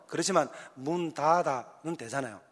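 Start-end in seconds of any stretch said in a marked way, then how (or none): 0.7-2.0 문 닫아 spelled out slowly; slow demo. Shown as a demonstration. Preacher showing how it should sound: slow careful 문 닫아. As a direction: say 문 닫아 syllable by syllable. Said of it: "우린 쌀 발음이 잘 안 되잖아요".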